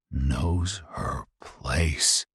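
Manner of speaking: very slow incredulous repeat of "Knows her place?"; disbelieving echo. Real, not acted. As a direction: drag it out in disgust. Narrator echoes in disbelief.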